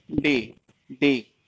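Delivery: डे stretched very slowly, each sound held; drawn-out demo. Shown as a demonstration. Teacher demonstrating how to read डे, stretching it very slowly. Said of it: "अब हम इसको read कैसे कर रहे हैं?".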